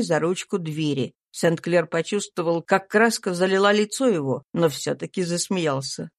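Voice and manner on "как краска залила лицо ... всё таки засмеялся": ordinary delivery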